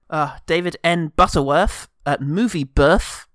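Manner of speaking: "Birth" said with f for th, "Birf"; TH fronted: "Birth" sounds like "Birf". Real, not acted. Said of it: "your charming, uh, T H fronting".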